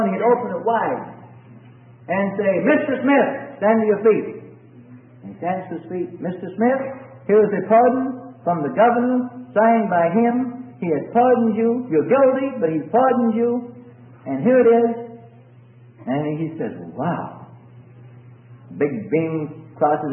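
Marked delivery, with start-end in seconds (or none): 2.7-15.2 lightly voiced jailer, higher pitch; jailer announcing a pardon. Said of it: "the jailer would come with a pardon". 16.9-17.5 soft, lower wow; hushed amazement. Acted. Freed prisoner amazed, acted.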